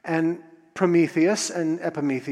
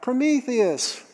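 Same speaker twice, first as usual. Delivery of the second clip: high, drawn-out mock yell, no real volume; 8 semitones higher, slower than usual. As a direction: call the name out high and long. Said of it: "someone yelled out".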